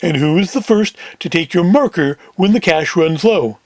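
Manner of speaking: lightly voiced heavy; a hint of a big man pressing his point. Big Sam questioning Rabbit Ears, lightly put-on voice. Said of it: "Big Sam in the deeper voice".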